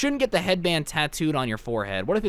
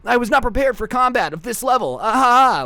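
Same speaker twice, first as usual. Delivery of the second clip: put-on crying anime kid; 6 semitones higher, 5 dB louder than usual. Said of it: "they'd just start crying and be like".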